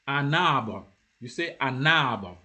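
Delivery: "an arbre" run together as one word, N leading into "arbre"; joined N. Shown as a demonstration. Teacher giving an example to repeat, N joined. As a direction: link the N straight onto the A of "arbre". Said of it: "So you have joined it".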